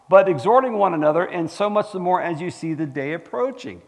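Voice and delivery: loud pulpit reading that eases off; declaimed Bible verse; scripture reading. Acted. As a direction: proclaim the verse, strong at the start. Reads scripture aloud.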